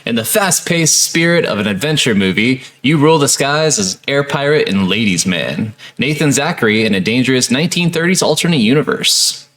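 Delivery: steady, even read-aloud of ad copy; blurb read-out. Acted. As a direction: read the game's sales copy in full phrases. Reads game box blurb aloud.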